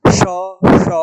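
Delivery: श drawn out as a breathy hissing sh; 1 hissing sh sound. Shown as a demonstration. Teacher shows students the breath of श clearly. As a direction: hiss out श, श so the warm air is felt. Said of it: "ह बोल के देखिए".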